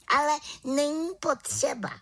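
a cheerful small witch with plans; little witch. Acted. The little witch invites Havran to the village, high and eager.

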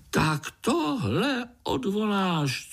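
high, slow demanding fly; struggling fly. A narrator's reading. Fly groom demands a retraction, high squeaky. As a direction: demand it while tugging. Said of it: "cukal se mušák".

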